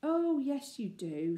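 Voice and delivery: high, lilting coax; coaxing big sister. Acted. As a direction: gently coax a scared sister. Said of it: "she said coaxingly".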